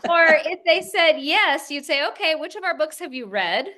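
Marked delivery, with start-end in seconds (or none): 2.1-3.7 a bit higher, quicker, blunt East Coast New Jersey challenge; lightly put-on New Jersey no-nonsense tone; mock New Jersey bluntness. Daughter imitating mother's blunt New Jersey phone manner. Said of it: "in this East Coast kind of style".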